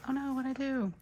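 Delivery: sudden high-pitched dismay; startled oh no. Real, not acted. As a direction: yelp it as you spot the mistake. Sticker mishap mid-sentence.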